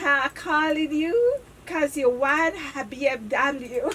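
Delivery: slow, laughing scam pitch; scammer voice. Retold or imitated. Scammer luring the victim with a prize, slow and giggly. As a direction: slowly sell the fake prize through laughs. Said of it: "scammer them".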